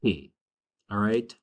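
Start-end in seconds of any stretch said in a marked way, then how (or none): 0.0-0.3 Que said low as one crisp syllable, like the letter K in Spanish; model pronunciation. Shown as a demonstration. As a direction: model Que slowly like "kay" for students to repeat. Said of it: "practice that with me".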